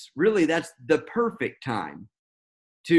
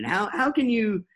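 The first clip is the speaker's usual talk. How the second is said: incredulous how; 4 semitones higher than usual. Retold or imitated. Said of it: "is how it comes across".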